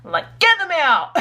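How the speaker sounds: sassy self-scolding, rising to a laugh; scolding self-talk. Retold or imitated. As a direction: tell yourself off with sass. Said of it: "I'm like".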